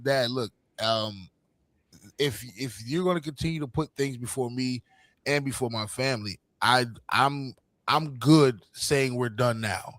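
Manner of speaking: low, soft, slowed-down firmness; serious ultimatum. Retold or imitated. Son giving his dad an ultimatum, quiet and serious. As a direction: lay it down quietly and deliberately.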